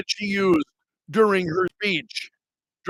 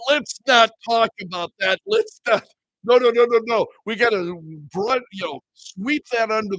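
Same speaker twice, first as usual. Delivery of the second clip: mock hushing-up protest; 3 semitones higher than usual. Host plays media avoiding the bogus accent story, mock protest. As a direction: wave it away in mock alarm.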